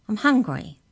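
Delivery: high, loud cry. A narrator's reading. Mallory answers the looming giant, crying out. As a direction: call it up to be heard. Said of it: "cried Mallory".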